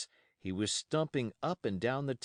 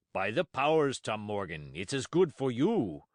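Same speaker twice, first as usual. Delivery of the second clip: exclaiming; 4 dB louder than usual. Acted. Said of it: "exclaimed the landlord".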